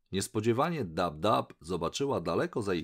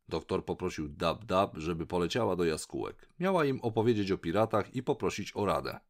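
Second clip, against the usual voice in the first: ordinary delivery, nothing marked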